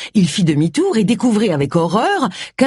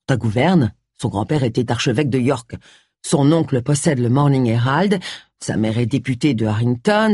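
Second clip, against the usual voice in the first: slightly lowered, matter-of-fact male character; lightly voiced James figure; 4 semitones lower than usual. James briefing Agatha on Rory's family, drily. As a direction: list the connections drily, a little low.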